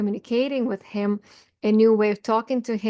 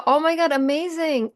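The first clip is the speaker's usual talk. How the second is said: higher-pitched, pleased self-praise; mock amazement; 5 semitones higher than usual. Telling yourself it is amazing to catch yourself, mock amazement. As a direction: act out delighted self-discovery.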